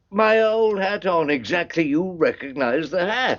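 pointedly doubtful, pitched well up; sceptical questioning. Acted. Doubts he was truly recognised.

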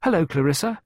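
high, lightly called greeting; calling out. A narrator's reading. Child greeting her stepmother, calling out. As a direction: call hello as you come in. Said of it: "She called out".

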